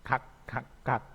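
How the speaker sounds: "Kak" with a clipped final k, each one separate; batchim demo. Shown as a demonstration. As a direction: model "kak" for students, stopping the k. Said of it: "bacanya sama".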